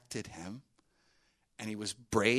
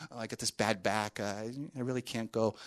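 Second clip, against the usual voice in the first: mock excuses; 5 dB quieter than usual. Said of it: "He's, like, backing up".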